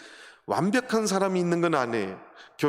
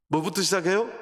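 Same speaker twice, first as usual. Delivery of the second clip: 시작해요 pushed louder with a rising tune; louder, prodding repeat of 시작해요; 4 semitones higher, 5 dB louder than usual. Shown as a demonstration. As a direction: press the congregation for the answer.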